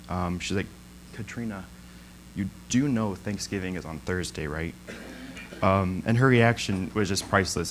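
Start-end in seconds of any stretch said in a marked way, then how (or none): 1.1-4.7 sweet and nice. Retold or imitated. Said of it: "in, like, the nicest and sweetest way".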